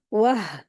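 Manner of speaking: "वाह" as a short "wah" closed on a breathed h; joined h. Shown as a demonstration. Teacher showing waw joined to haa, closed syllable. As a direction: round into "वाह" and stop on an audible h. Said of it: "ऐसे पढ़ेंगे".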